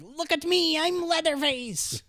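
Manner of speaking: high-pitched, loud mock horror holler; hammed-up imitation of a shouted movie line; manic movie-quote yell. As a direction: yell it like a crazed movie killer, drawing out the last word. Quotes possessed man wielding meat cutter.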